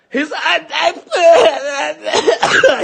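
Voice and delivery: high choking, crying noises; imitated choking. Father acting out his choking son, imitated choking cries. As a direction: mimic someone choking and losing it. Mimics the boy choking and losing it.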